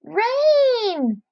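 alarmed cry. Acted. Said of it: "cried the ants".

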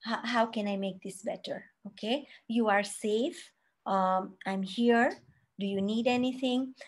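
soft, gentle comforting words; calm the crying child softly; soothing parent. Shown as a demonstration. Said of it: "You can say".

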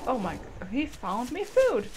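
slow, courtly creature thanks; polite dino voice. Pretend. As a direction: speak as a grateful gentleman dinosaur, slowly. Voicing the dinosaur, polite.

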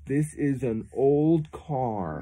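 put-on This is an old car said very slowly, stress on old; slow teaching model. Shown as a demonstration. Parent modelling English for child, very slow. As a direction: draw out each word slowly. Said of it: "say it like Papa".

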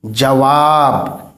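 जवाब said slowly with a clear w, ja-waab; waw sounded. Shown as a demonstration. Teacher slowly showing pupils the spoken waw in जवाब. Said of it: "ये वाव पढ़ा जाएगा".

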